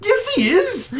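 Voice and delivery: high, trembling panic; panicked kid. Acted. The beaten kid fears the bully will kill him. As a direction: babble in fear of getting hurt.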